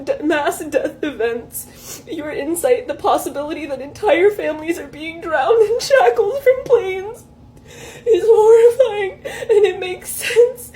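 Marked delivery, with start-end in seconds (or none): 2.9-10.7 fighting back tears while reading; crying, worn out. Real, not acted. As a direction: voice breaking into tears. Reading the chatbot's reply, breaking down.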